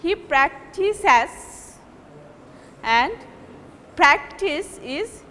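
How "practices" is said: "practices" slowly, with the second syllable drawn out; second-syllable stress. Shown as a demonstration. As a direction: separate and lean on the middle syllable of "practices". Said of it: "second syllable is taking prominence".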